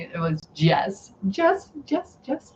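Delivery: put-on Dutch-accented "Jess" for yes, repeated; light Dutch accent, "Jess" not "yes"; grandma's Dutch accent. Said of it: "my grandma, even though she was here".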